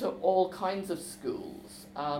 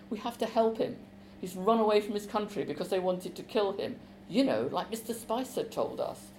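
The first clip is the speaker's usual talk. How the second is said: desperate; 3 semitones higher than usual. Acted. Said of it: "in a really desperate voice".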